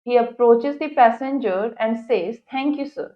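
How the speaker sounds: slow, careful English reading; textbook read-aloud. Acted. Teacher reads the English passage to students, slow read-aloud. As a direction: read it out deliberately for a class.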